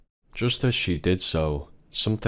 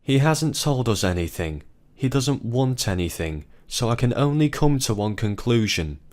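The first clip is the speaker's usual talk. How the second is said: screaming in tears; 5 semitones higher than usual. Acted. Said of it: "his wife screamed in tears too".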